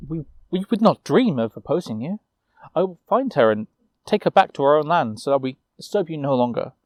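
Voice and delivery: put-on nervous young knight, stammering; hesitant, cowed apology; faltering. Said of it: "Osmond faltered".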